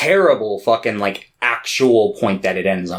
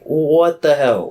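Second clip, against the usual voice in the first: slow baffled; 4 semitones higher, slower than usual. Retold or imitated. Reacting to a strange ending.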